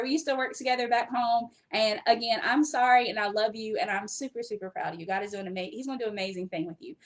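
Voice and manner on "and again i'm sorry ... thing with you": tearful pride. Real, not acted. Host congratulating an old coworker, getting teary-eyed. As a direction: speak gently, close to getting emotional. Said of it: "I'm gonna get all teary-eyed".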